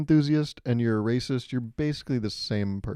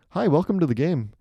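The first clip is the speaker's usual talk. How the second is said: louder, higher announcer welcome; game host intro; 5 semitones higher, 4 dB louder than usual. Shown as a demonstration. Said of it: "that's how you start a game".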